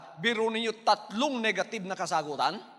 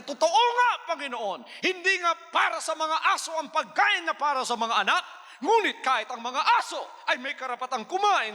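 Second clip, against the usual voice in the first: eager earnest plea; 4 semitones higher than usual. Acted. Woman answering the Lord, eager and earnest. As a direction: plead brightly and insistently. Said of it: "sabi niya".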